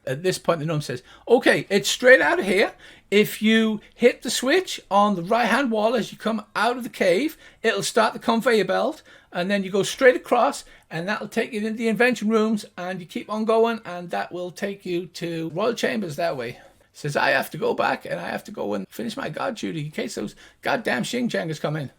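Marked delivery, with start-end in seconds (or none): 1.3-16.6 higher-pitched gnome giving directions; brisk little guide, pitched up; gnomish voice. Acted. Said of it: "the two high-pitched gnomish voices". 17.2-21.9 lightly voiced gnome guard; a hint of the higher gnome pitch; gnomish voice. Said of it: "the two high-pitched gnomish voices".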